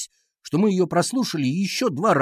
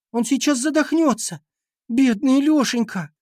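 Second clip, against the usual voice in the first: put-on high-pitched girlish wail; panicked lament; 11 semitones higher than usual. A narrator's reading. Катя fears the boy will choke, panicked wail. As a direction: wail in alarm for the poor boy.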